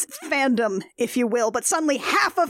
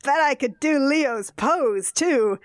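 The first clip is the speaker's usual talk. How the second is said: put-on slow slurred drunk voice; town drunk; 2 semitones higher, slower than usual. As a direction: slur it out slowly like a drunk. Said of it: "He is slurring his speech".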